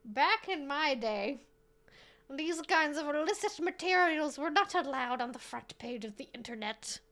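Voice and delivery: newscaster voice. Pretend. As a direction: read it like a solemn anchor. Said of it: "that's the voice I'm apparently channeling".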